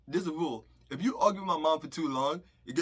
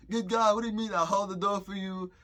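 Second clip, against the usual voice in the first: indignant surprise; 6 semitones higher than usual. Retold or imitated. Protesting to the girls who call him a liar, in high indignant disbelief. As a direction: act stunned at being called out.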